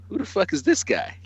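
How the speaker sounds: high, brash Irish fighter's taunt; a mocking Irish trash-talk snap; Conor McGregor style. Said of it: "Conor McGregor style".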